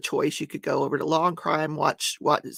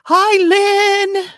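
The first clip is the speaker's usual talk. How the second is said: cheerful greeting; 13 semitones higher, 11 dB louder than usual. Real, not acted. Greeting viewers on live stream.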